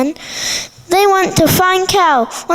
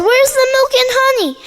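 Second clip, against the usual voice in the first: excited mouse; 7 semitones higher, much faster than usual. A narrator's reading. Mouse says, fast.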